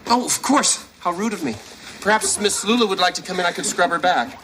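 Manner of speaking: high, sugary sarcastic welcome; mock politeness. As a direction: play the gracious host with a sneer. Mock hospitality after an apology.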